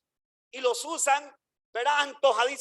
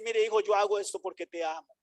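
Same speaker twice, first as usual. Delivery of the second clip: tender father; 4 semitones lower, 4 dB quieter, faster than usual. Retold or imitated. Father comforting son.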